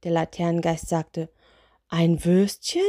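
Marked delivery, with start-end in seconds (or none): 1.9-2.8 puzzled question with rising end. Acted. Spirit hears the sausage wish, puzzled. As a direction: ask it in restrained disbelief.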